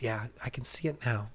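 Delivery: put-on hushed whisper to a dying child; father whispering to his dying son. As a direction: breathe it, barely voiced.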